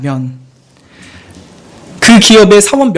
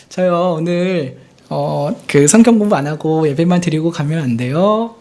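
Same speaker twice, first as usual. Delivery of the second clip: cute pleading student; 2 semitones lower than usual. Retold or imitated. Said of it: "너무 귀엽게 얘기해가지고".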